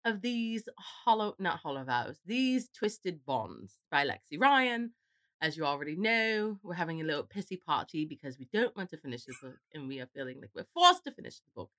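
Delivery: mock British podcast host; put-on British accent. Introducing the book nobody wants to finish, in a put-on British accent. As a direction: keep up a pretend British accent. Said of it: "I can't do that accent".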